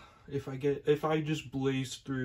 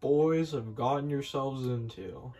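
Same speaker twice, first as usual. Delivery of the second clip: put-on wise old kettle. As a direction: counsel them gravely like a grandfather. Elder Kettle voiced.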